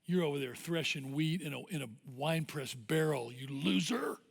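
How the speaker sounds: lightly mocking inner critic; dirty nagging voice. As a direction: needle them, leaning on the final insult. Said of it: "dirty, nagging voice".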